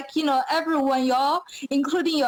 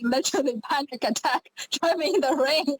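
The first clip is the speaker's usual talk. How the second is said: laughing through the words, a little quicker; faster than usual. Real, not acted. Contestant laughs about her panic driving in rain, quick and giggly.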